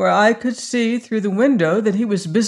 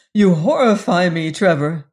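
cried out; 5 dB louder than usual. Acted. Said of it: "I cried".

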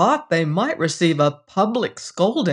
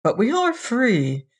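perplexed; 6 semitones higher than usual. Acted. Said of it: "Ludovic said, perplexed".

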